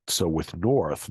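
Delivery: "North" drawn out slowly with the R kept; Boston North slowly. Shown as a demonstration. Teacher introducing the Boston word, slow. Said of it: "two alternate pronunciations".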